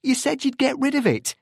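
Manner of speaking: high-pitched, angry accusation; almost shout it, holding back fury; barely controlled anger. A narrator's reading. Anderson accusing Tim of breaking his word, angry near-shout. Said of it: "barely able to control his anger".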